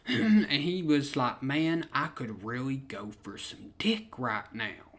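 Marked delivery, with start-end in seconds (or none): 1.4-4.9 imitating a dead-serious friend. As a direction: say it deadpan, without any lift. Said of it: "he said it dead serious".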